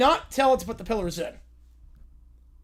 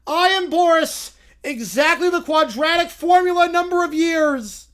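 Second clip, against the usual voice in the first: Boris voice; 3 semitones higher, 4 dB louder than usual. Acted. Group improv, referee character.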